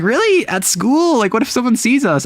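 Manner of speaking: high, flustered "really, at school?"; a flustered girlfriend objects to kissing at school, squeaky and high; flustered disbelief. Acted. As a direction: play a shocked, embarrassed girlfriend. Voicing flustered Ayaka.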